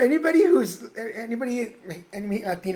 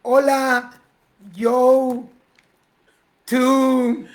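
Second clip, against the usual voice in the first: halting attempt, one word at a time; friend without Spanish; 2 semitones higher, much slower than usual. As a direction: grope for each word with long gaps. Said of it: "who didn't speak a word of Spanish".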